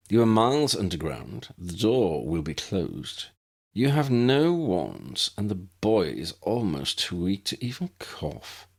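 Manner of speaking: a hint of cruel leisure; taunting villain. Villain taunting trapped prisoners.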